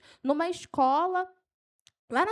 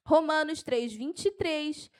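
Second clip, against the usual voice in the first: brisk, excited verse reference; keyed-up preacher citing a verse; carried away; 2 semitones higher, slower than usual. Real, not acted. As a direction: rattle off the reference with enthusiasm. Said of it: "eu me empolgo".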